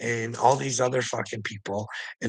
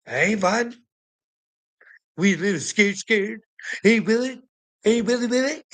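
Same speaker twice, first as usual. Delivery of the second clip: much higher, sing-song teasing calls; high mocking taunt; 8 semitones higher than usual. Real, not acted. Vlogger mocking the commenter Willie as scared, high and sing-song.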